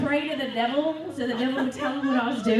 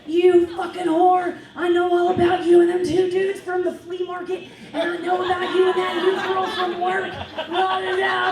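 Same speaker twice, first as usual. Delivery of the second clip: put-on enraged boyfriend; 3 semitones higher, 4 dB louder than usual. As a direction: imitate his phone tirade with fury. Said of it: "he would call me just enraged".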